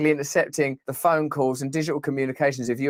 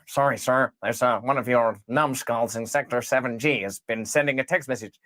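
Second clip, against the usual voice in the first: meek underling; 5 semitones lower than usual. Acted. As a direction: mumble like a cowed clerk. Underling voice in skit.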